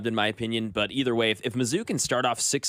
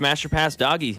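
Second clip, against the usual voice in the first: loud and punchy, higher; hyped drop shout; 4 semitones higher, 4 dB louder than usual. Shown as a demonstration. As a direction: shout the catchphrase like a radio drop. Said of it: "when you hear this drop".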